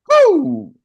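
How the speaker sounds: loud, high celebratory woo; excited whoop. Real, not acted. Speaker whooping at his own line to the team. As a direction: whoop like you just dropped bars. Hype after a rhyming line.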